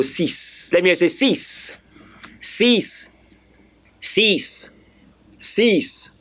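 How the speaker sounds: "sis" ending in a hissed s; French six pronounced. Shown as a demonstration. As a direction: say "sis" with no k sound before the s. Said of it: "That is how that is pronounced".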